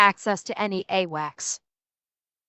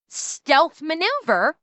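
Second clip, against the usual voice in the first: ironic air quotes; 3 semitones higher, much slower than usual. Real, not acted. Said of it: "quote unquote".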